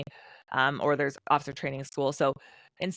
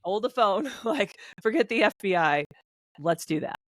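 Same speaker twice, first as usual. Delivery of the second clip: higher-pitched, amused sudden realization; excited self-quote; 5 semitones higher than usual. Retold or imitated. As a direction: act out dropping everything with a laugh. Voicing her sudden change of plan.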